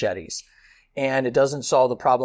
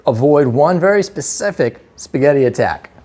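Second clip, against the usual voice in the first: loud, ominous trailer narration; horror trailer voice; 9 dB louder than usual. Acted. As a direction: announce the danger like a horror movie trailer. Dramatic video intro, loud.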